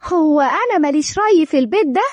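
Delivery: mildly indignant question; a touch of anger; angry. Acted. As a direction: protest with understated annoyance. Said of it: "فريدة بغضب".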